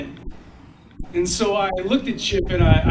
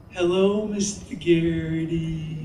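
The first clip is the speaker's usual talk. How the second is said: slow, drawn-out sing-song class greeting; kids in unison; slower than usual. Retold or imitated. First graders greet the guest in slow sing-song. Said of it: "all go in unison".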